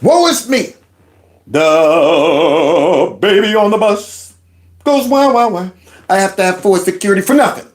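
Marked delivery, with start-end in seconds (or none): 0.0-5.7 slow whiny woe-is-me wail; hammed-up baby crying wah wah; mock crying baby. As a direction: whine it like a bawling baby. Mocking her complaint.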